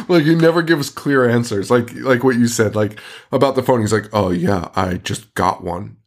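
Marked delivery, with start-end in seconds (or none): 4.1-6.0 shifty evasive voice. Retold or imitated. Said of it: "the way he talks is so insane".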